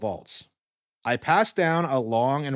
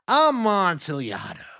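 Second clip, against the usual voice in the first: eager; 7 semitones higher, slower than usual. Acted. Fortunato repeats the wine's name.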